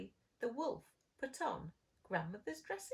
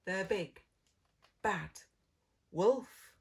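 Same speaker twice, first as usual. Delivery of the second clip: dramatic reveal; 9 dB louder than usual. A narrator's reading. Storyteller reveals the wolf.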